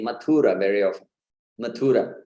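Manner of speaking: Mathura as ma-THOO-ra; long middle U, short last vowel in Mathura; mispronounced Mathura. Shown as a demonstration. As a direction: stress the U in Mathura. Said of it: "put the stress on the U".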